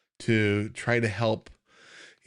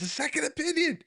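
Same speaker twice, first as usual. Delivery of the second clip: "A second opinion" read out in a much higher, put-on voice; reading a viewer's comment; faster than usual. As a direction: pitch up to voice the viewer's comment playfully. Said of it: "Stacy says".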